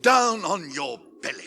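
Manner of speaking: sharp loud command; commanding bark. Acted. Wizard ordering the traitor to the floor, sharp command. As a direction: strike the word down.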